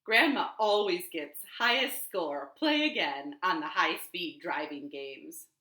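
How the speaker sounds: lively picture-book reading; reading to children. Shown as a demonstration. Librarian reading the picture book aloud at storytime. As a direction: read it out warmly to the kids.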